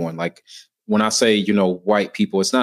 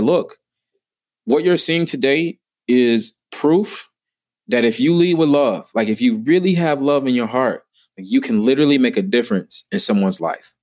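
impassioned speech; 3 semitones higher than usual. Retold or imitated. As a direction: preach it from the stage. Retelling his own talk on stage.

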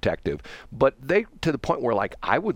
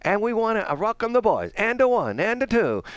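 put-on high, sing-song Bavarian-accented bandleader; sing-song count-off in a bandleader's accent; 11 semitones higher than usual. Host welcoming the band, bandleader accent sing-song. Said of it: "And he talked like this".

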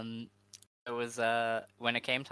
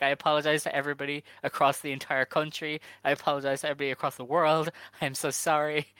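fast, higher-pitched frantic apologizing; mock yelled apology; 3 semitones higher, 3 dB louder, faster than usual. Wrestler who spoiled the surprise, mock frantic apology to everyone. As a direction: imitate a wrestler gushing apologies in a hurry. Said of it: "she just starts yelling".

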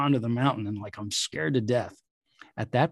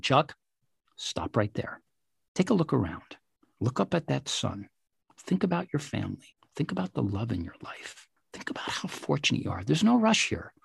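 calm reassuring guide; 3 semitones higher, 4 dB quieter than usual. Retold or imitated. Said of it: "Calmed me down".

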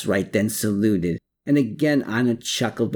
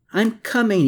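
higher and louder call to the door; 11 semitones higher, 4 dB louder than usual. A narrator's reading. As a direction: shout it toward the knocking. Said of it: "he called out".

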